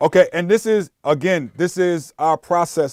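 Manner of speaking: too-loud near-yell. Explaining the recording process while wearing headphones, talking too loudly. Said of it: "I'm sorry if I'm yelling".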